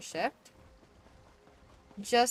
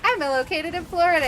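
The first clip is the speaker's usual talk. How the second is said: high, loud exaggerated reply; hammed-up answer; 10 semitones higher, 10 dB louder than usual. Agent tells caller his location, hammed-up answer. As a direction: shout it back, pitched way up. Acting own escalating answer.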